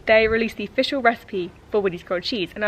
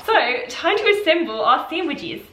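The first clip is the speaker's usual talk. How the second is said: higher-pitched, vaguely Australian put-on accent; 5 semitones higher than usual. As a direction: slip into a playful Australian-like accent. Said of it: "I don't know why I do that accent".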